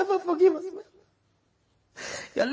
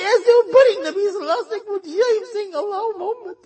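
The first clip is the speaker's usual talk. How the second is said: higher, voice breaking into sobs; tearful pleading; 5 semitones higher than usual. Real, not acted. Preacher weeping over the Prophet's love for his ummah. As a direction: cry through the words.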